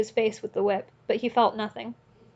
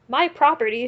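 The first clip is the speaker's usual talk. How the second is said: higher, louder defiant shout; 4 semitones higher, 6 dB louder than usual. A narrator's reading. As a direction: claim her, snarling. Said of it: "shouted Mikolka".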